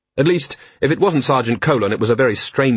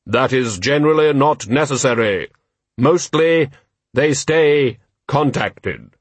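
Death's voice; 3 semitones higher, slower than usual. A narrator's reading. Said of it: "the voice ... didn't sound right".

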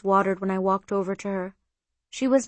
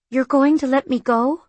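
louder, higher disbelieving question; taken aback; 5 semitones higher, 6 dB louder than usual. A narrator's reading. Maid learns from her employer she is let go, taken aback. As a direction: rise into a startled question.

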